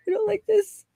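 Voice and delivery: high, helpless whine with a laugh; whiny patient. Retold or imitated. Retelling her own reply to the dentist, high laughing whine. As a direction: play yourself as a squeaky, helpless patient. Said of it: "I'm like".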